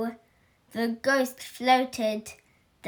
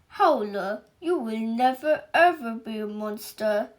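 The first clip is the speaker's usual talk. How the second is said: booming ogre; 4 dB louder than usual. Acted. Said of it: "boomed Mister Ogre".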